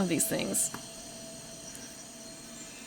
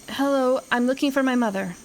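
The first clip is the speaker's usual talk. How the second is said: a badly faked Irish voice, a bit higher; failed Irish accent; 3 semitones higher than usual. Streamer attempting Irish, self-judged a failure. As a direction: try Irish and miss. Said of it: "that's not Irish at all".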